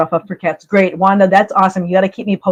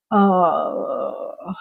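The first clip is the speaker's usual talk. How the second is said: brief tearful sob; 3 semitones lower, 5 dB quieter than usual. Real, not acted. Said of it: "it's not a stream unless Kim cries".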